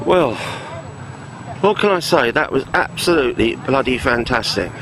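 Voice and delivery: breathless after the drive; out of breath. Real, not acted. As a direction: talk while still out of breath. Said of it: "I'm completely out of breath".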